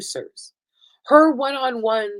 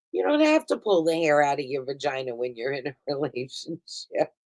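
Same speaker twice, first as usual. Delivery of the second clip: put-on Fran Drescher accent; 4 semitones lower than usual. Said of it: "a quasi Fran Drescher accent".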